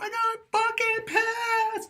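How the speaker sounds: very high, slow mock shout; mock furious yell. Retold fight with girlfriend, high mock yell. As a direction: replay the blow-up, hammed-up. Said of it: "I kept screaming louder and louder".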